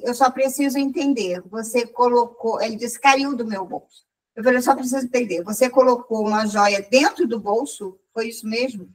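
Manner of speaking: measured, unhurried questioning; calm. Retold or imitated. Customer questioning the man who lost the ring, calmly. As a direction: keep it calm and controlled. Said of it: "falei muito, muito calmamente com ele".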